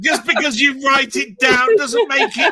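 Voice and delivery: slow, laughing teasing shout; mock him while laughing; real laughter through the teasing; laughing tease. Real, not acted.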